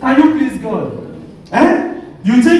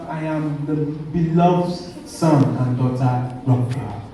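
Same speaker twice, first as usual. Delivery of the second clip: quiet affirmation; 8 semitones lower, 5 dB quieter than usual. Acted. Preacher models the answer to someone's insults, quiet affirmation.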